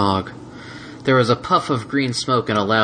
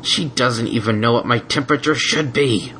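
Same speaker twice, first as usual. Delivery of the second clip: growled; 3 semitones higher than usual. Acted. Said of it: "Spike growled".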